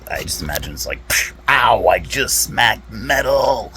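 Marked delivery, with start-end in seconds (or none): 1.1-3.7 loud, high, drawn-out mock cry of pain; hammed-up ouch, stretching the last word; pained yelp. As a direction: yelp as if you just hurt your hand. Acts out spanking robot child.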